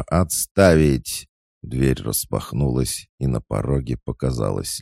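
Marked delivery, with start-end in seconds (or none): 0.0-1.3 loud, slow commanding bark; powerful bark. A narrator's reading. Lucy bursting in, barking at the couple. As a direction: bark the order to stop them. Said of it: "так мощно рявкнуть".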